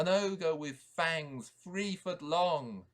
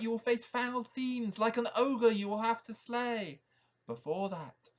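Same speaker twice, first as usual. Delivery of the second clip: higher owl giving instructions; wise owl voice; 8 semitones higher, 5 dB louder than usual. Acted. Owl telling the knight the quest, higher owl voice. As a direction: speak as the owl guiding the knight.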